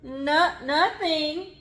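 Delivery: high, nervous yelp. A narrator's reading. Jasper hiding his fear from Mom, yelping. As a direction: blurt it out too fast, caught out. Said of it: "he yelped".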